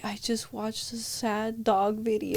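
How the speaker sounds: small whispered confession, a bit slow. Retold or imitated. Daughter whispering why she is crying. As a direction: breathe it like a teary child.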